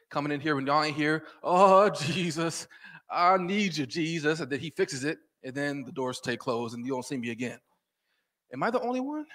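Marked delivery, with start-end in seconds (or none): 1.4-4.4 slow, loud pleading cry to Jesus; desperate prayer. Retold or imitated. Preacher acts out his panicked prayer in church, loud and slow pleading. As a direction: beg Jesus slowly, voice raised.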